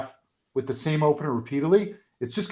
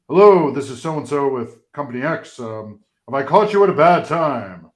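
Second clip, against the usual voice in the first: boring cold call opener; 8 dB louder than usual. Shown as a demonstration. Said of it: "and that's boring".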